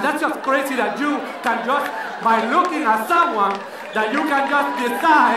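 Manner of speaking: put-on lightly accented offended rant; a touch of an offended Latina accent; indignant Latina. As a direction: complain in a mild Latina accent. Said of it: "repeat of indignant rant".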